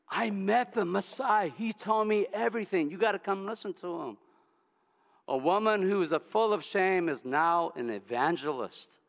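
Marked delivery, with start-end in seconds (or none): 0.1-4.2 excited. Acted. Woman telling the town.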